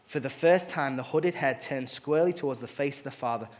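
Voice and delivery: expressive read-aloud storytelling; story reading. Acted. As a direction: read the tale to the congregation, voicing its figures. Reads a story aloud in sermon.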